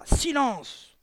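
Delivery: loud, high call for silence; bawled order. A narrator's reading. Headmistress wheels round on the cheering child, bawling. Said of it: "et brailla".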